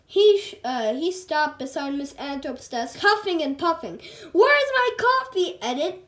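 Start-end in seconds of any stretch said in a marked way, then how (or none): 4.3-6.0 higher, louder barked demand; shouted demand. A narrator's reading. Mister Krupp shouting at his secretary for coffee, loud and high. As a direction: bellow it across the office. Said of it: "he shouted".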